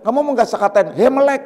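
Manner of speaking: mock name-calling.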